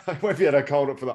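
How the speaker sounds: quick protest broken by real laughter; laughing. Real, not acted. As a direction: talk through a laugh. Laughs at accent request.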